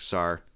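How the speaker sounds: "sar" with an R tacked on the end; Boston intrusive R in "sar"; added Boston R. Shown as a demonstration. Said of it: "we add R's in other words".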